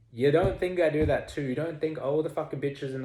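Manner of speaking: a loud, sassy challenge; indignant. Real, not acted. Indignant rhetorical challenge to viewers.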